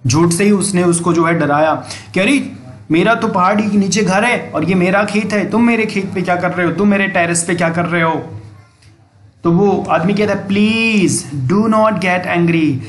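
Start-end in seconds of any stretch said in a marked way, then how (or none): 2.2-8.3 mild angry scolding. Acted. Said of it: "गुस्से से चिल्लाया". 10.5-12.8 gentle plea. Acted. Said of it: "जब किसी को प्यार से कोई बात बोलना हो".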